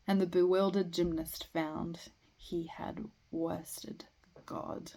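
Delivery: measured poem recital with line breaks; poetry reading. Acted. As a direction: recite verse, pausing after each phrase. Reads a poem aloud.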